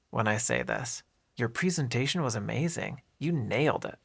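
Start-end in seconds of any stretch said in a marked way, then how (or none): 1.4-4.0 "nailed" emphasized over the words around it; stress on NAILED. Shown as a demonstration. Teacher models praise for a presentation, stressing "nailed". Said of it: "I emphasize the word "nailed".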